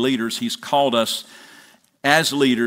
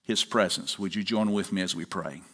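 public prayer; 3 semitones lower than usual. Acted. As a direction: lead the congregation in prayer, settling into a hushed amen. Pastor leads congregation in prayer.

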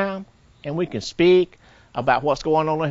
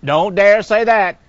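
slow, firm reprimand; stern warning; 4 semitones higher, 5 dB louder, slower than usual. Acted. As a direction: cut the thought off.

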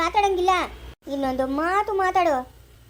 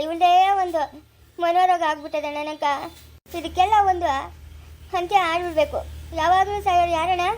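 angry outburst; 4 dB louder than usual. Acted. Fed-up woman rants to brother.

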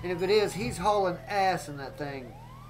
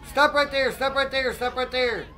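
police command shout; 5 semitones higher than usual. Acted. Cop yelling at the suspect at gunpoint, commanding. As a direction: yell it at the suspect, then ease off.

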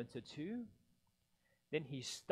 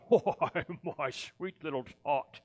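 sugary fake Santa, a bit louder; fake sweetness; 10 dB louder than usual. Grinch as fake Santa lying to Cindy Lou, sugary. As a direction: lie sweetly to the child. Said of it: "the fake Santa Claus lied".

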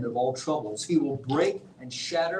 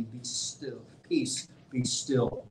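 calm command; 5 semitones lower, 5 dB quieter, much slower than usual. Acted. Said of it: "how Jesus spoke the words to a raging sea".

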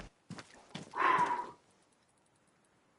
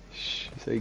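whispering; 12 dB quieter than usual. Real, not acted. Hushing teammate during sneaking play.

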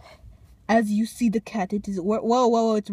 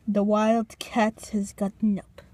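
nature documentary; 3 semitones lower than usual. Pretend. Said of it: "documentary of the wild Walmart cat".

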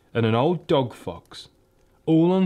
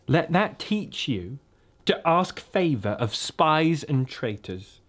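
slow, higher icy rebuke; cold witch; 4 semitones higher than usual. Acted. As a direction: scorn him slowly, coldly. Witch scolds Edmund.

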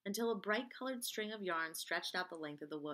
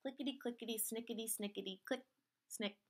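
soft onomatopoeia; 3 semitones higher, 5 dB quieter than usual. A narrator's reading. Knitting needles' sound in story.

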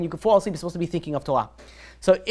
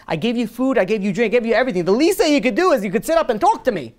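scolding host; 5 semitones higher, 3 dB louder than usual. Acted. Rich man scolds dozing guest.

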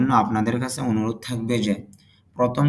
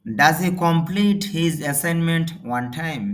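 slow model reading; 2 semitones higher, much slower than usual. Shown as a demonstration. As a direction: dictate it word by word for learners. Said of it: "teacher models English sentence slowly". (ধীরে ধীরে জোরে পড়া)

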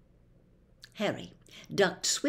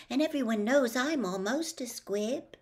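fearful; 5 semitones higher than usual. A narrator's reading. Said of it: "his round face fearful".

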